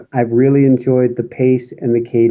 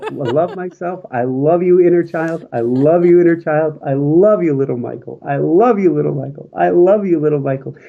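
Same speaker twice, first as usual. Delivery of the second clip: meditation mantra. Shown as a demonstration. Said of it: "That's actually my meditation".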